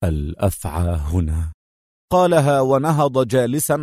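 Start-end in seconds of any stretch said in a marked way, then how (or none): 0.0-1.5 low, slow man's voice; grim statement. A narrator's reading. Man nods and names the viper, low and grim. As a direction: say it darkly. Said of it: "هز رأسه قائلًا".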